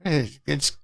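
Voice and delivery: high mock broken-English haggling voice; lightly voiced pushy street vendor; mock haggler.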